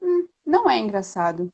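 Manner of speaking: understated, unamused retort; serious. Retold or imitated. Customer answering the ice-cream vendor's joke, mildly stern. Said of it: "E eu fiquei séria".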